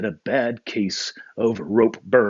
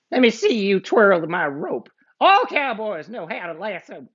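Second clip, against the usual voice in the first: outlaw voice; 10 semitones higher than usual. Acted. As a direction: lay down the rule. Black Bart speaking.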